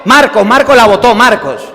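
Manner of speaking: put-on rat out the brother like a tattling kid; tattling sisters. Hermanas acusan a Marcos. (hermanas acusando, más agudo y fuerte)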